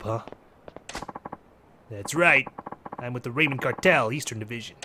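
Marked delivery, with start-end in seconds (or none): 1.9-4.8 put-on mobster with a light Jersey accent. Mafia man introducing his cartel, Jersey accent. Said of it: "Japanese mafia member has a Jersey accent".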